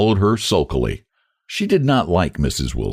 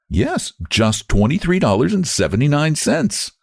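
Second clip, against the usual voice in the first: Sarah voice; 8 semitones higher than usual. A narrator's reading. Sarah repeats the sum.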